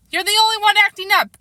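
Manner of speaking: mother snaps at her son, angry; snapped. A narrator's reading. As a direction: bite the words back at him. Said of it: "Kate snapped back".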